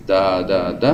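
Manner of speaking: first "Da" loud then lighter; trochaic da-da. Shown as a demonstration. Teacher shows working out a word's rhythm, falling. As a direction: lead hard, then let it drop. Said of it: "well, that's trochaic".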